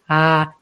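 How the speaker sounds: "ah" suspendido. Shown as a demonstration. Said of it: "la dejan ahí colgada".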